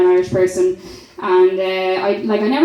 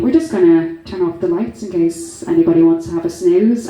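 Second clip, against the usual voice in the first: lightly voiced cabin announcement, pitched lower; a hint of a low, casual intercom voice; intercom announcer; 4 semitones lower than usual. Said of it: "this voice comes on over the intercom".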